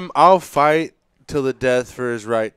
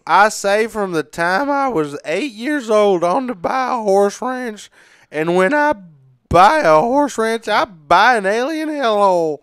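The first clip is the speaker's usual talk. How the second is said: put-on slow drawling redneck accent, pitched up; 6 semitones higher than usual. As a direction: read it like a hammy redneck. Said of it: "read it in, like, a, a redneck accent".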